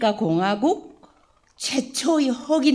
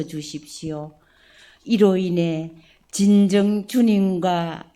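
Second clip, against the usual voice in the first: slow, solemn prayer to God the Father. Acted. Priest leading the parish family in opening prayer, solemn and devout. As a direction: pray it humbly, each phrase laid down with care.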